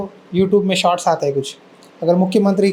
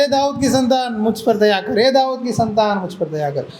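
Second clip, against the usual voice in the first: imitated crying out; 3 semitones higher than usual. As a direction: call for mercy in a raised pitch, falling away at the end. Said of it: "क्या चिल्लाने लगा?". (ऊंचे सुर में दया की पुकार की नकल)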